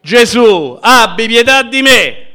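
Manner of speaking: high, loud desperate plea; loud cry for mercy. Shown as a demonstration. Preacher showing the congregation how to cry to Jesus, loudly. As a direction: cry out to be heard over the crowd. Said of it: "Devi gridare più forte".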